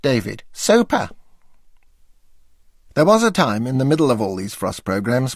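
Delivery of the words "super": high, emphatic super. Retold or imitated. David's enthusiastic echo.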